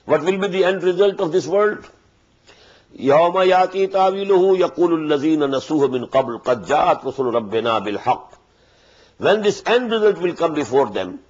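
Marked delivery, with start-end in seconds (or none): 3.0-8.4 chanted Arabic recitation, melodic and flowing; Quran recitation. Acted. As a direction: recite the verse in measured tajwid chant.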